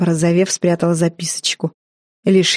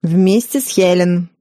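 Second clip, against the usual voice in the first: kindly; slower than usual. A narrator's reading. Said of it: "подобрев, разрешила свекровь".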